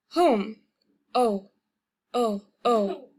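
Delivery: "O" as in "Home", sounded alone; harsh O. Shown as a demonstration. Teacher showing learners the Korean O, harsh vowel demonstration. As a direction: repeat a firm, harsh "O" after "Home". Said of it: "kind of a harsh O".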